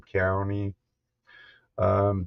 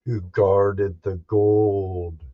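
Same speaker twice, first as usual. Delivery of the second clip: spooky story narration. A narrator's reading. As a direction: tell it like a ghost story by the fire. Spooky campfire ghost story told.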